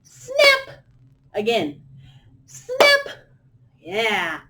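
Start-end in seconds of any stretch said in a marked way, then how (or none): 0.0-0.8 high loud snap; sharp loud crocodile snap. Shown as a demonstration. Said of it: "Make it nice and loud". 2.5-3.2 high loud snap; sharp loud crocodile snap. Shown as a demonstration. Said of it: "Make it nice and loud".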